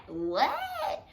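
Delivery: high, punchy falling repeat; exasperated what. Retold or imitated. Asking again, still not hearing.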